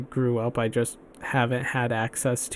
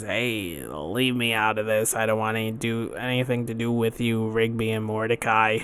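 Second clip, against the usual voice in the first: Skips; 2 semitones lower, 3 dB quieter than usual. Acted. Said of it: "he plays Skips in regular show".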